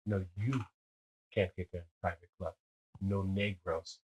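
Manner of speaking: put-on low-key, very soft German accent; imitated German accent. German doorman bars him from private club, quiet German accent. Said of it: "Like that ... With the accent".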